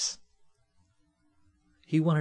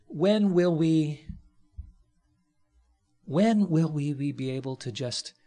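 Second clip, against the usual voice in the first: louder, slow, drawn-out appeal; preaching at full force; 4 semitones higher, 5 dB louder than usual. Real, not acted. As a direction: hammer the question at the congregation. Preacher building to a challenge.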